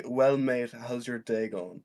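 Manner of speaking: lightly put-on British accent. Shown as a demonstration. Showing a friend how to become British, light British accent. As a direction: try a British greeting, "day going" drawn out. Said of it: "use a, that British accent".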